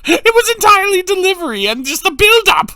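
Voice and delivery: high, loud, helpless laughter through the words; talking through a real laughing fit; laughing hard. Real, not acted. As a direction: squeal it out while cracking up. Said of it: "I'm laughing so hard".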